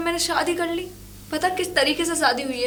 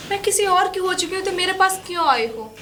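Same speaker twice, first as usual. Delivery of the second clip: higher-pitched, heated challenge; exasperated, raised-pitch questioning; indignant retort; 4 semitones higher than usual. Acted. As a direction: throw the accusation straight back. Woman retorts in lovers' quarrel.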